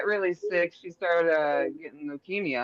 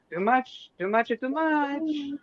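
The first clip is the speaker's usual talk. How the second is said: higher, slow stressed "too much"; emphatic; 10 semitones higher, slower than usual. Real, not acted. Warning about the sedative doses, slow emphatic higher repetition. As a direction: drive home the danger.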